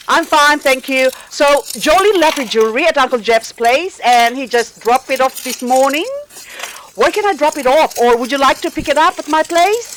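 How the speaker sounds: high, eager, nervous voice on the phone; cringey high phone voice. Retold or imitated. Calling a man she likes, in a cringey high voice. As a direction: pitch up nervously to sound casual. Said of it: "I was cringing at the voices coming out of my mouth".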